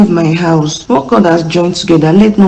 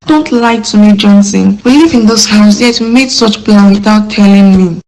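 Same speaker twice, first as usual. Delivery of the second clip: upset accusation; 2 semitones higher than usual. Acted. Wife confronts husband over second wife.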